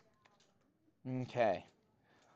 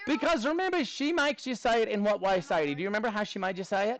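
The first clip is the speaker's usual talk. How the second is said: put-on Australian accent; Aussie accent; 3 semitones higher than usual. Maths teacher asking students for help, put-on Aussie accent. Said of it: "we'll do this in an Aussie accent".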